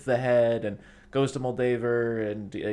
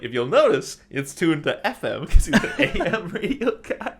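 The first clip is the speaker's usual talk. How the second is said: laughing explanation; 7 semitones higher, 8 dB louder than usual. Retold or imitated. Parnell character in Hot Rod.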